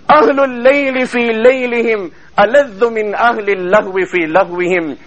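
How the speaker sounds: rapid chanted Arabic quotation; Arabic recitation. Acted. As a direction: rattle off the Arabic saying in one breath.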